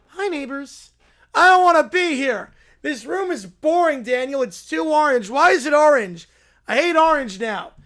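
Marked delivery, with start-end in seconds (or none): 1.3-7.7 put-on bratty kid complaint.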